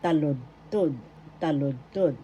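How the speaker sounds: "Taludtod" as TA-lud-tod; first-syllable stress. Shown as a demonstration. Teacher repeats the word after spelling syllables, "Taludtod" stressed on ta. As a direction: put the accent on "ta" in "Taludtod". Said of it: "The accent is in the first syllable".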